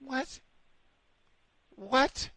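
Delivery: sharp high disbelieving what; incredulous what. Real, not acted. Nicknamed a bear, he yelps in high disbelief. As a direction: react in total disbelief.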